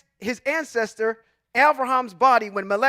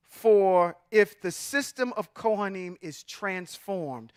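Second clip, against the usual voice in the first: slow, lower, deliberate scripture reading; slower reading; 4 semitones lower, slower than usual. Shown as a demonstration. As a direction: spell it out slowly for a drowsy congregation. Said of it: "read it a little bit slower".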